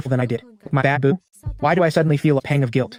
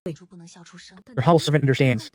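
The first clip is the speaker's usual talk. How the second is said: slow, drawn-out fake-humble reply; slow mock humility; much slower than usual. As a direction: stretch it out with sly politeness. Feigned humility to the prince.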